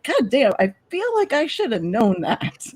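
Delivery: mock-exasperated I-should-have-known; stunned realization. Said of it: "I was like".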